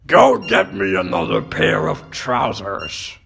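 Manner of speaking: blustering, indignant complaint; irate newspaper chief giving orders; bad-tempered boss. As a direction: rant at your secretary in exasperation. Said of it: "He's in such a bad mood".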